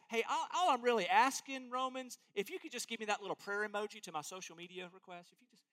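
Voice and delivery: light, dismissive social-media ask; a touch of lazy request, boop and all; mock casual plea. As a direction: shrug it off like it hardly matters. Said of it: "we don't even have this".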